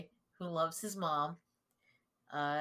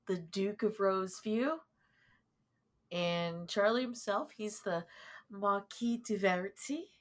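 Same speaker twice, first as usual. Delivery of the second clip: put-on English accent. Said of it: "I said that with an English accent".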